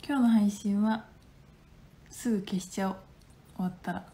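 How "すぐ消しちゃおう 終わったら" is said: whisper. Real, not acted. Secret about deleting stream.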